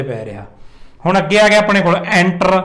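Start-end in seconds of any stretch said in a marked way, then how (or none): 2.0-2.6 "ਐਂਟਰ" with the weight on "ਐਂ"; stress on first syllable. Shown as a demonstration. Teacher introducing an example, first syllable of "ਐਂਟਰ" stressed. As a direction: press the opening syllable of "ਐਂਟਰ". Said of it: "ਉਹਦੇ 'ਤੇ ਜ਼ਿਆਦਾ ਜ਼ੋਰ ਪੈ ਰਿਹਾ".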